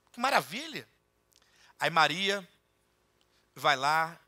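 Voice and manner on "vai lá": usual speaking voice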